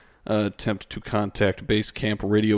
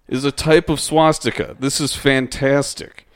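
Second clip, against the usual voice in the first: excited reading; 4 semitones higher than usual. Shown as a demonstration. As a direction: read it as if thrilled by the discovery. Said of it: "So those two sentences are right next to each other".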